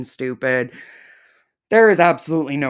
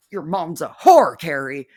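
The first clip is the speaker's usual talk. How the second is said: louder insult; 6 dB louder than usual. Real, not acted. Insult repeated, louder second take.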